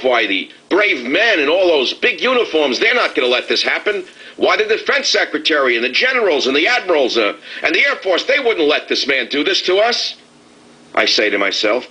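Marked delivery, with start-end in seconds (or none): 0.0-10.2 mock reverence. Host sneering at trust in the generals, mock-reverent higher voice. Sarcastic praise of military.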